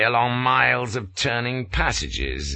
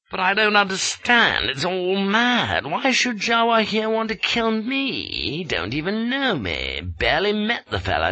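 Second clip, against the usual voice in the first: bewildered protest; 11 semitones higher than usual. A narrator's reading.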